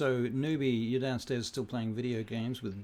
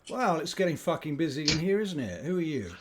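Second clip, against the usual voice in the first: gruff annoyed lord; 5 semitones higher, 5 dB louder, faster than usual. Acted. GM voicing Archon.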